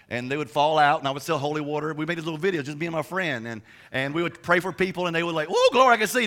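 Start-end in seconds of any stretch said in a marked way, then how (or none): 5.5-6.3 mock healing joy. Healed people in the mock videos.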